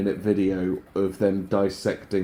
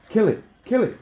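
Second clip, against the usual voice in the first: excited shout; 12 semitones higher, 4 dB louder, faster than usual. Real, not acted. Urging a kill in game.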